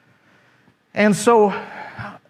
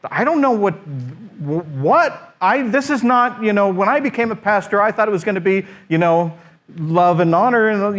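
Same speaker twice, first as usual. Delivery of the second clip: higher, rising in incredulous protest; a pastor thrown off balance, voice climbing in disbelief; exasperated disbelief; 4 semitones higher than usual. Retold or imitated. New pastor's baffled thoughts after the meeting, exasperated and high.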